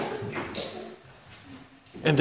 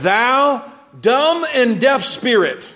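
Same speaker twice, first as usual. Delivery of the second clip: commanding Jesus; 4 semitones higher, much slower than usual. Acted.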